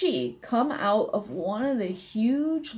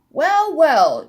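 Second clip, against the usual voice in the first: higher, louder bird-like chirp; chirping sparrow; 4 semitones higher, 6 dB louder than usual. A narrator's reading. Miss Sparrow reacts to the elf's news, raised chirp. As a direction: chirp it out with a lift in pitch. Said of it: "chirped Miss Sparrow".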